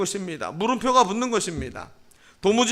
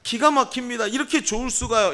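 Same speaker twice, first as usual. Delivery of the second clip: higher-pitched, acted amazement; exclaiming in wonder; 4 semitones higher than usual. Pastor acts a believer thanking God, exclaiming in wonder. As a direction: exclaim thanks with a touch of awe. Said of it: "감탄사가 붙을 때".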